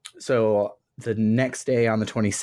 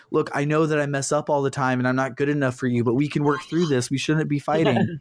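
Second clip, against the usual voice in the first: higher-pitched pleading, imitated; mock lovers' quarrel; 5 semitones higher than usual. Junpei to Chidori in a couple fight, mock pleading. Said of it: "sounds like they're having a couple fight".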